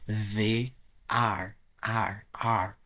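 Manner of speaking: "are" repeated, fading to a whisper; pronunciation drill. Shown as a demonstration. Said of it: "On prononce they are". (répéter « are » jusqu'au chuchotement)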